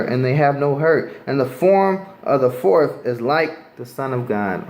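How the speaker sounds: preacher reading scripture to the street crowd. Acted. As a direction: read the King James verse aloud with weight. Reads verse twenty-three on.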